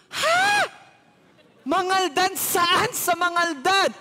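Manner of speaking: high, loud cry of disbelief; shocked shout. Retold or imitated. Older woman shouting that she is from Mangaldan too. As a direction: yelp it, then press the question.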